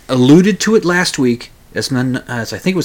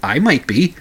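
coy hint; slower than usual. Retold or imitated. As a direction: drop a tentative, playful hint. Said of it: "kinda hinted that".

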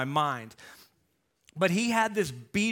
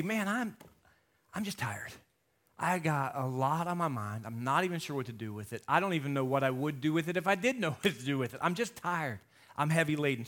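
weary complaint; 2 semitones lower, 4 dB quieter than usual. Retold or imitated. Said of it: "weary and heavy laden".

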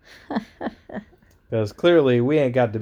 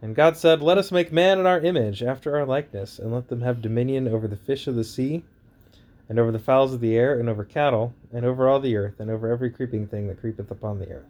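booming biblical narration. Acted. Reads Genesis aloud.

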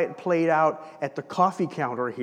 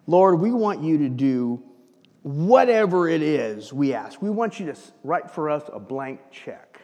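schmoozing. Retold or imitated. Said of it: "They wanna play him".

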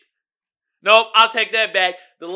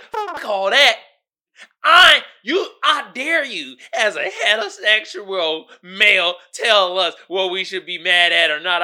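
mock offended women; 4 dB louder than usual. Women scolding him for his remark.

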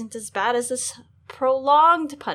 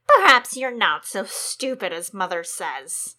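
cold sneer; 3 semitones lower, 5 dB louder than usual. Acted. King studies Sansa.

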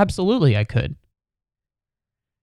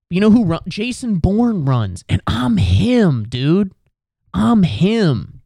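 hype boast; 8 semitones higher than usual. Pretend. Hyping himself as Jason Bourne.

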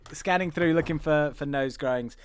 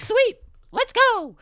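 much higher, slow, louder breezy cheer; carefree kid; 5 dB louder, slower than usual. Retold or imitated. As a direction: toss it off like nothing happened. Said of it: "they're like".

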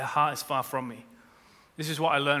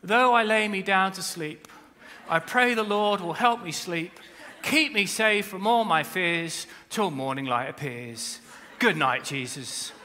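mock gentle bedtime prayer; slower than usual. Preacher mocking a tame bedtime prayer, gently. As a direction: pray sweetly like a sleepy child. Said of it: "a nice, calm, little, warm, passive prayer".

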